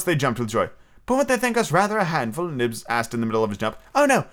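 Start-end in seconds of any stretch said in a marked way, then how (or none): 1.0-2.5 higher-pitched eager question; a hint of an excited boy, pitched up; lightly voiced boy. A narrator's reading. Child Nibs asks mid-jump. 3.9-4.3 high, light exclamation; high-voiced girl reassuring; Wendy thinking aloud. A narrator's reading. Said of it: "Wendy said, thinking it out loud".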